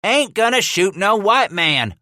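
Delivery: high, loud stubborn refusal; arguing shout. Acted. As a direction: snap back in the argument. Thieves arguing at the wall.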